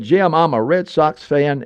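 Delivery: slow, lightly put-on French accent; a hint of a French priest's accent, slow; mild French accent, drawn out. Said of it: "and with a French accent".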